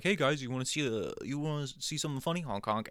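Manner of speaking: high, fast chirpy clown pitch; goofy clown. Retold or imitated. Comedian mimicking a clown offering kids a joke, high and fast. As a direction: play the pushy clown trying to amuse. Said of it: "this fucking guy who's just like".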